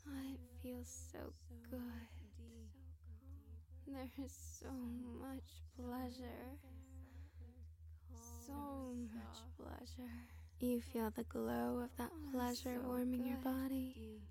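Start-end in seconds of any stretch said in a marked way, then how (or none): 0.1-10.2 faint, much softer delicate whisper; a tiny tinkling snowflake whisper. Acted. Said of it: "you hear a delicate voice".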